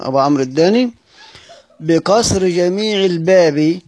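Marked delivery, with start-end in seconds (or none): 1.8-3.8 slow recited phrase. Shown as a demonstration. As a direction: recite بكسر جميع الباب slowly. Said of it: "وابن غلبون طاهر".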